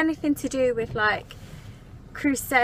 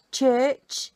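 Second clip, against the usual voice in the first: 1 Birmingham accent; 4 dB louder than usual. Shown as a demonstration. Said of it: "trying to teach Clarice a Birmingham accent".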